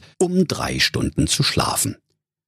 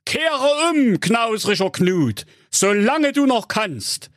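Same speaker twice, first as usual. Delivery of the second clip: high, wailing otherworldly admonition; warning ghost; 13 semitones higher than usual. A narrator's reading. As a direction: warn solemnly as a dead partner's ghost.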